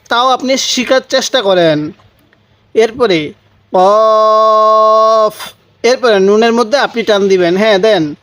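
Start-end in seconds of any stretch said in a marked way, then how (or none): 3.7-5.3 কফ with a short rounded o, not কাফ; correct pronunciation. Shown as a demonstration. Teacher correcting viewers: কফ with a short o, not কাফ. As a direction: say কফ firmly with a short o, never a long a. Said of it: "ভেঙে ভেঙে পড়েন".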